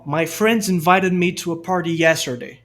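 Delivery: American sentence, R sounded in "party" and "yesterday"; American accent. Shown as a demonstration. Teacher giving an example sentence, American accent. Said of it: "Sotaque americano".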